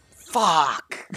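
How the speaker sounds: high, drawn-out falling curse; dismayed curse. Real, not acted. Gamer seeing a terrible roll, long dismayed curse. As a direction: stretch the word out as it sinks.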